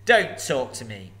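loud, slow, looming dragon voice; a huge dragon toying with a thief; booming sly dragon; menacing dragon. Acted. Dragon speaks.

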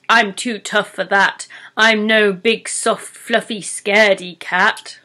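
lightly voiced troll, proudly boasting. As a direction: puff up like a tough troll.

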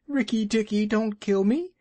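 high pleading squeak of a frightened muskrat; almost weeping. Acted. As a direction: beg for your life, close to tears. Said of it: "almost weeping".

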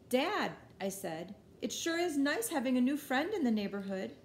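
pointed hint. Acted. Hinting loudly to dad.

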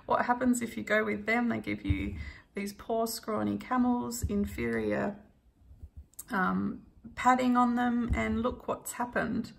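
lightly imitating an indignant rant; mild retold rant. Travel companion warning tourists off a camel safari, mildly ranting. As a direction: rant at onlookers, only half-heartedly. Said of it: "he was sort of ranting, going".

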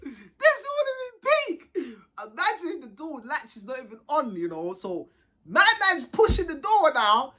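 words breaking with laughter; laughing while talking. Real, not acted. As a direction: talk through real laughter. Laughing while recounting the fight.

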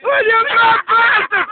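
excited cheering. Real, not acted. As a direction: roar him on, half laughing. Cheering on a daring mate.

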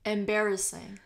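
"Embarrassing" dipping down, then rising at the end; fall-rise tune. Shown as a demonstration. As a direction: let "Embarrassing" fall, then lift it as if unfinished. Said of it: "它用的是先降后升这样子".

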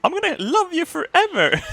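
put-on high, cooing French accent; hammed-up French accent, very high; mock French accent. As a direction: croon it in a silly French accent. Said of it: "I'm French".

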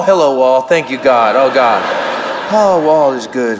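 low, relieved talk to himself; calm yourself down in a low voice; self-soothing. Acted. Starstruck comic turns to the wall, low self-soothing.

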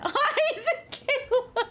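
slow, high, laughing greeting; laughing hello. Real, not acted. Greeting a viewer in chat, slow and laughing. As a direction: stretch the name out through laughter.

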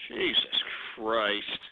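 low, slow, drawn-out exasperation; exasperated groan. Acted. Host groans at the laughing studio, exasperated. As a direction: sag into the words, fed up.

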